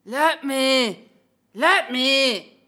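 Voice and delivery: desperate plea. Acted. Trapped samurai pleading.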